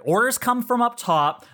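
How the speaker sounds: lightly acted defensive bureaucrat; defensive dispatcher. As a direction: protest that it's out of your hands. Game master acts harried dispatcher arguing.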